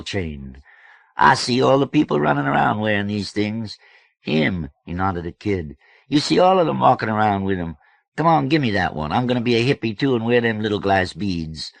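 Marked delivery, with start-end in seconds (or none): 1.2-4.7 high, loud, animated man's voice; boisterous George. A narrator's reading. George greeting passers-by at night, boisterous. 6.1-11.7 loud, high, wheedling demand; pushy George. A narrator's reading. George begging the girl for beads, pushy.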